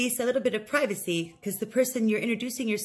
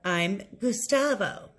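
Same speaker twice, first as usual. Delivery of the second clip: slow model sentence; slower than usual. Shown as a demonstration. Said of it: "It's saying".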